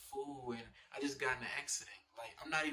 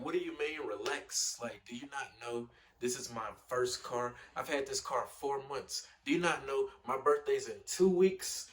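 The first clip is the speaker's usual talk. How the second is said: retold meltdown; 3 semitones higher, 10 dB louder than usual. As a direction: re-enact cutting her off, escalating to a shout. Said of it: "like, an instant meltdown".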